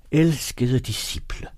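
slow, lightly preacherly salutation; solemn address. A narrator's reading. The old angel addresses his disciples, mildly solemn. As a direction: open gently like a preacher addressing followers.

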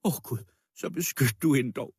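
high, frantic tirade; wild screaming voice. A narrator's reading. Dying widow begging the crowd to defend the girl, wildly. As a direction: wail and rail at everyone, desperate. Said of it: "skreg med vild stemme".

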